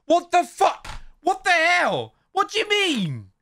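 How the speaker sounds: high-pitched stunned outburst; shocked disbelief. Real, not acted. Reacting to a grandparent's baffling post, high shocked squeal.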